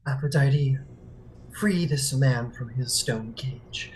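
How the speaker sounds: slow, solemn invocation; invoking prayer. Acted. Thalia invoking Aphrodite in a slow solemn voice. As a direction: call on the goddess solemnly.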